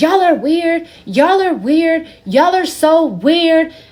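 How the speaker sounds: acted, sloppy, loud, high drunken outburst. Retelling what a friend said on the patio, imitating a drunk friend. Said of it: "You're drunk".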